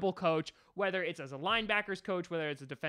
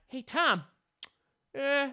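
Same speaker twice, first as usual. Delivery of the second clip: imitating a Brooklyn-Queens fan, higher; Brooklyn accent; 8 semitones higher, 4 dB louder, slower than usual. Imagined fan questions the host in a Brooklyn accent. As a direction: play a New York listener heckling the host. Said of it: "I have this accent, like I'm kind of from Brooklyn".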